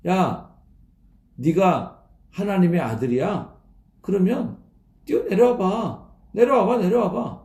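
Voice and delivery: teasing crowd's singsong jeer; mocking taunt. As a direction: goad him to come down, mocking. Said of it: "이렇게 막 조롱하는 거거든요".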